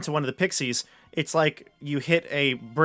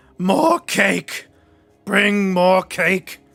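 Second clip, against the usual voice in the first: very drawn-out, loud, high monster call; 5 semitones higher, 8 dB louder than usual. Voicing a creature that calls out for more cake: creature calling out. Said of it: "the creature calls out".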